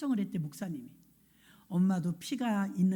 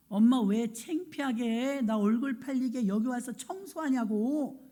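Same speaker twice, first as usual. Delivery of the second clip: put-on child scolding mother; 4 semitones higher than usual. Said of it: "엄마한테 막 혼내드렸어".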